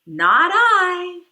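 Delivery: a loud, blunt "no" from the duck; loud refusal. Acted. Duck refusing to help the little red hen, loud blunt refusal. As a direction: bark it out, flat refusal.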